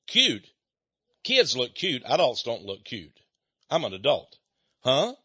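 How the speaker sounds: mildly imitated huffy offence; retold huffiness. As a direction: lightly mimic an offended lady, opening on an indignant question. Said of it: "she got all huffy".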